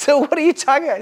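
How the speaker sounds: high, loud, puzzled; incredulous question. Retold or imitated. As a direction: ask it as if the idea sounds absurd. Quoted atheist questioning him.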